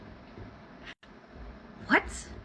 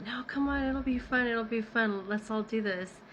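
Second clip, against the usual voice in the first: a wheedling nudge to come along; coaxing friend; 3 semitones higher than usual. Retold or imitated. Roommate urging her into the prank, lightly mock coaxing.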